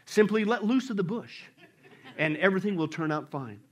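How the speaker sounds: low, measured heavenly advice; calm voice. Acted. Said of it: "the calm voice said".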